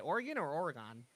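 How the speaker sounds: Oregon two ways, second ending drawn to "gone"; two pronunciations. Shown as a demonstration. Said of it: "which is the correct pronunciation".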